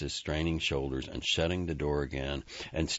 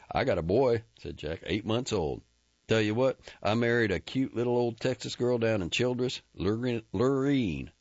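jittery cowboy voice, raised and quick; Jack, nervous chatter; 8 semitones higher, 4 dB louder than usual. Acted. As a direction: babble to fill the silence.

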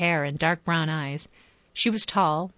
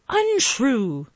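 curt and cold; clipped; 7 semitones higher, 4 dB louder than usual. A narrator's reading. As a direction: snip the word off short. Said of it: "in a clipped tone".

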